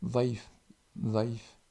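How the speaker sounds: "Dhaif" with a voiced th, like English "that"; teacher models "Dhaif" slowly for the class; Arabic word demo. Shown as a demonstration. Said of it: "Dhaif, ça veut dire".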